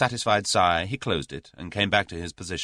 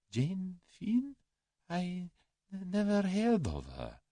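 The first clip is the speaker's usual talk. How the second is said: high, soft, faltering denial; frightened Russian; 13 semitones higher, 6 dB quieter, slower than usual. A narrator's reading. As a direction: stammer out a denial.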